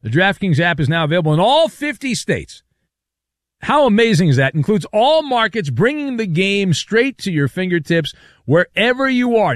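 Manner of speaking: upbeat sports-radio sponsor read; lively host-read commercial. Acted. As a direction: punch the selling words, pitching the offer to listeners.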